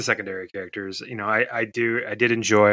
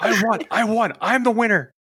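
high loud gloating cry; triumphant shout; 14 semitones higher, 7 dB louder than usual. Retold or imitated. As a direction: crow it out like a proud winner. Quoting the movie's triumphant shout.

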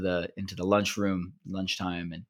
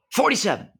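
high and louder; called out number; 5 dB louder than usual. Acted. Another camper calling out a number, high and loud. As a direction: call the number out as a punchline.

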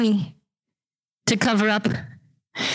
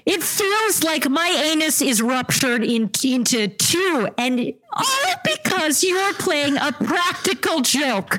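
angry; 4 semitones higher than usual. Acted. Soldier furious at prank.

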